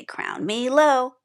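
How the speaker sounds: a hint of a grand king ordering; mock royal command. Shown as a demonstration. King character in the letter story, slow grand command.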